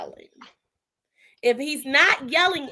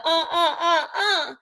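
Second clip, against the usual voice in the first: laughing; 3 semitones higher, slower than usual. Real, not acted. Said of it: "sometimes the uh".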